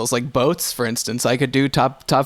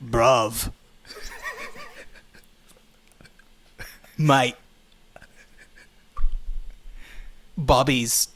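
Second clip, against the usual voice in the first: put-on British accent; 4 dB quieter, much slower than usual. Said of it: "your best Vin Diesel doing a British accent".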